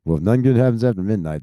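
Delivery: fast, sarcastic parroting of "nothing good happens after midnight"; mocking repeat. Shown as a demonstration. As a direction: rattle off the saying to ridicule it. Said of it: "that's the dumbest shit I've ever heard".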